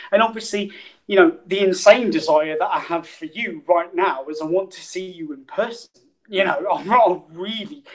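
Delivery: a lightly voiced second persona called Tracy, chatty; barely shifted voice playing Tracy back for a thank-you. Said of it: "I'll just invite her back".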